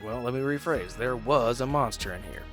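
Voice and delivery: normal talking voice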